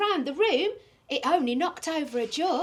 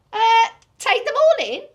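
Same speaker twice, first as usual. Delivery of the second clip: bold advice; 7 semitones higher, 10 dB louder than usual. Acted.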